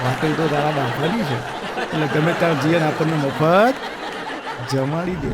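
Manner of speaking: a hint of a sneering husband, fast; husband's sarcastic retort.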